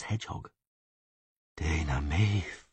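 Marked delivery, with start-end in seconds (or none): 1.6-2.7 slow, reverent utterance; veneration. A narrator's reading. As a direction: breathe the name slowly in reverence. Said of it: "said Filavandrel with veneration".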